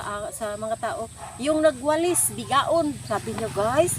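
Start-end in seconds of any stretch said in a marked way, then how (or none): 1.4-2.9 high, loud jeer to the crowd; retold shout. Boss shouting to the crowd about the sweeper, loud retold shout. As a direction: point her out and shout the insult. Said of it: "nagsigaw siya".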